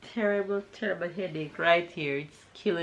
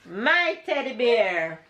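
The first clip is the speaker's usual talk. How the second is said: mock possessive; 4 semitones higher, 3 dB louder, much slower than usual. Real, not acted. Mother claims teddy from toddler.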